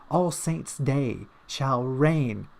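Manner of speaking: slow, grand, put-on voice of doom; very slow theatrical pronouncement; mock grand proclamation. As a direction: proclaim it like an ancient prophecy.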